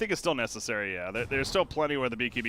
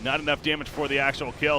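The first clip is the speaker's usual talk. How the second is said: quick, louder, lifted commentary; live esports play-by-play; 5 semitones higher, 5 dB louder than usual. Real, not acted. Caster to viewers as a fight restarts, animated play-by-play. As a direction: call the fight as it flares up.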